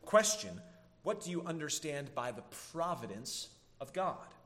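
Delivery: deliberate catechism question, set apart; slow reading. Real, not acted. Preacher reads a catechism question to the congregation, slow reading. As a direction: read the question out carefully and deliberately. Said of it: "I'll try to read it slow".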